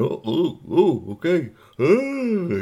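high waking groans, acted; just woken up. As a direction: groan awake, tired and reluctant. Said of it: "So Clem went".

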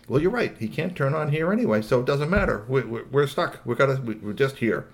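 mildly resigned, pitch sinking as it goes; resigned Tilly Rob. Acted. Robot agreeing they are stuck, lightly resigned.

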